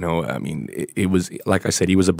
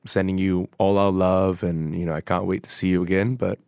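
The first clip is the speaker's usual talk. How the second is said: tender farewell; 5 dB quieter than usual. Real, not acted. Farewell to late friend.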